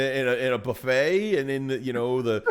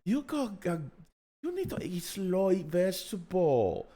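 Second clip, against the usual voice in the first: higher, lecturing waitress voice; imitating waitress; 4 semitones higher, slower than usual. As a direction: scold him like a bossy waitress. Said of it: "And it's like".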